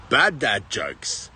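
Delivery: drawn-out, deadpan intro call; slow title announcement. Acted. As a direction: announce it slowly like a show title.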